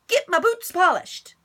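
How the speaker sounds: loud, high yelled name; shout. Acted. Stepbrother yelling for Bubba, loud and high. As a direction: bellow his name across the ranch. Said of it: "shouted Milton".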